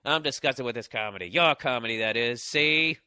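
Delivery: a hint of film noir narrator. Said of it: "starts speaking like in film noir".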